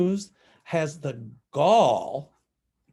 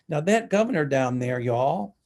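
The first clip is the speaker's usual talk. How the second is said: Southern accent coming through; 4 dB louder than usual. Real, not acted. Scolding the Texas governor down there, Southern accent. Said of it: "pardon my Southern accent".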